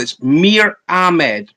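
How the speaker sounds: "Mir Ahmed" said slowly and carefully, one-syllable Mir; careful pronunciation. Shown as a demonstration. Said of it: "listen to me carefully".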